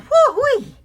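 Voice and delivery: high, loud whoop of joy; gleeful whoop. Acted. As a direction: whoop with relief. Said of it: "Fred hopped on the boat and yelled".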